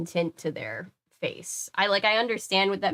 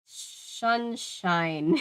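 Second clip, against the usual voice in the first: pathetic voice; 2 semitones higher, much slower than usual. Acted. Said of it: "I heard a pathetic voice say".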